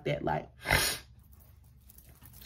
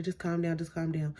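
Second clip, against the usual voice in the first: retold reassurance; 11 dB quieter than usual. Uncle soothing her, retold.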